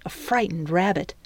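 ordinary delivery, nothing marked

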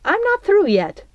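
high-pitched, sharp rebuff; glaring rebuke. A narrator's reading. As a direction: shut a rival down firmly. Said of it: "Belle glared at her nemesis".

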